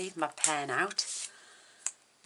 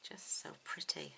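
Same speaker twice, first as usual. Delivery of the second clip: soft unvoiced whisper; a hushed "so pretty" to herself; whispered admiration; 5 dB quieter than usual. Real, not acted. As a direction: breathe it out admiringly. Admiring aside while colouring.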